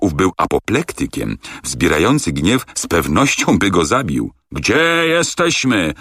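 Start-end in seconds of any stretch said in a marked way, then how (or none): 4.5-5.9 higher, slow, bursting with rage; the second ask, rage boiling over; furious repeat. A narrator's reading. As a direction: spit out the repeat, purple with fury. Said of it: "powtórzył z posiniałą twarzą".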